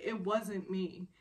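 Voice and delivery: slow, mildly insistent denial at normal pitch; earnest denial. Retold or imitated. Flustered woman correcting her teasing boss, earnest denial. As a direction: spell it out slowly and seriously. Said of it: "but seriously".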